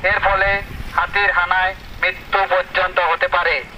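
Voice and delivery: public warning over a loudspeaker; loudspeaker announcement. Real, not acted. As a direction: read it like a village loudspeaker alert. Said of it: "মাইকে সতর্কতা প্রচার করা হয়".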